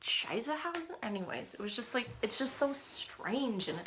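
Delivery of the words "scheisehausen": higher, half-whispered teasing disbelief; wife teasing husband in playful disbelief; mock disbelief. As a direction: rib him, amazed he remembers this. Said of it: "I'm like, look at him".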